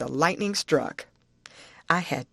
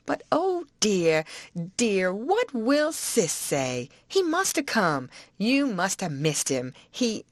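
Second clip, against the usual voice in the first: distressed aunt; 3 semitones higher than usual. Acted. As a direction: wring the hands over the lost nephew.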